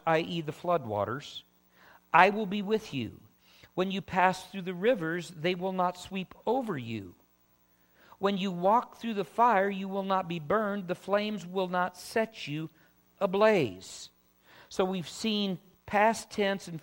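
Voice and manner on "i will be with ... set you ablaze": emphatic proclamation of a promise; firm preacher's reading, each clause set apart; scripture reading. Acted. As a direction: read the verse out to a congregation. Reads scripture aloud.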